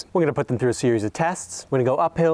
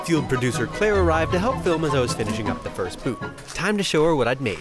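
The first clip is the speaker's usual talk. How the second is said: composed video narration; explainer voice-over. A narrator's reading. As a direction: narrate the build steps evenly, as voice-over. Voice-over of build steps.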